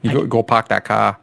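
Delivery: mock Boston dropped R's; lightly imitated Bostonian; Boston accent. Tossing out a classic Boston line, mock Boston accent. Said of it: "should have just done Boston accents".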